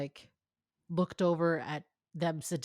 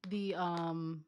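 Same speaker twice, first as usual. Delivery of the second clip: whisper; 2 semitones lower, 5 dB quieter than usual. Real, not acted. Whispered before singing.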